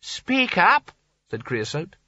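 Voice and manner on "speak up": put-on old man voice. A narrator's reading. Old man telling Nigel to speak.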